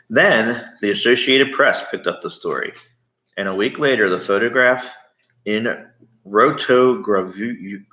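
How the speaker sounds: put-on reading a chapter aloud to a child; steady read-aloud narration; story reading. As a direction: tell it like a bedtime story. Reads the book aloud.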